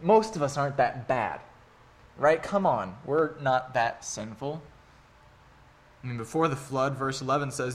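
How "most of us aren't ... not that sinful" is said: mock complacent voice. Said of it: "we kind of think".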